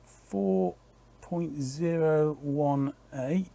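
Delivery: slow, whispered reading of the number; muttered reading. Real, not acted. To himself reading the meter, slow whispered mutter. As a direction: mutter the reading to yourself, slowly.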